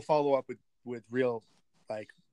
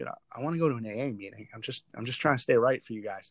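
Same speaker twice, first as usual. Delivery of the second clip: whisper, lower in pitch; 3 semitones lower than usual. Speaker retells what he said to a man questioning him; retelling a whisper. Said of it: "So I whispered to him".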